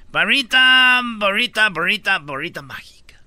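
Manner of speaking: mock wizard incantation, fading to a whisper; magic spell. Radio host casting a mock spell for Trump, whispered. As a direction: conjure the wand like a storybook wizard.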